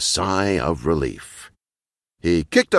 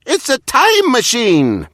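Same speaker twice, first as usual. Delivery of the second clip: loud, high cheer of delight; 14 semitones higher, 5 dB louder than usual. A narrator's reading. Huggos cheering the time machine, loud high cheer. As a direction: whoop it out like a thrilled crowd. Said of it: "they cheered".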